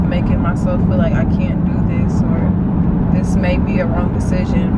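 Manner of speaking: tearful, shaky worry in the car; talking through tears, doubting herself; crying on camera, overwhelmed; real crying. Real, not acted. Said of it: "y'all gonna see me crying".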